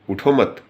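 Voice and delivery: "उठो मत" as one unit, high and loud; punched "उठो मत" with no inner pause; regrouped phrase. Shown as a demonstration. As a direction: join "मत" onto "उठो", then stop. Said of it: "पहले उठो मत है".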